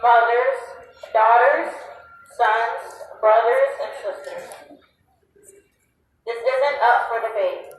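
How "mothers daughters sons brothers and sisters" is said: rally shout. Real, not acted. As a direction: call each name out to the crowd. Rally speech, listing victims.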